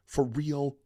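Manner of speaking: incredulous. Real, not acted. Streamer questioning the viewer who sent the clip, incredulous. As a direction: ask it in pointed disbelief.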